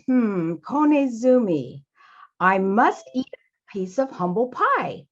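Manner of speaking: slow, pondering, humbled; a little embarrassed. Acted. Father Mouse admits he must eat humble pie, slow and sheepish. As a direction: mull it over slowly and reluctantly. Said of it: "Father Mouse was a little embarrassed".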